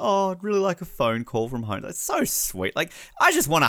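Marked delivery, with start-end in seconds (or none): 0.0-1.8 mock tearful plea. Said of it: "it's kinda like".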